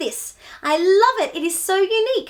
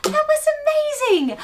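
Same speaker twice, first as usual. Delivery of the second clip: excited cheer; 6 semitones higher, 5 dB louder than usual. Real, not acted. Cheering kids after the song.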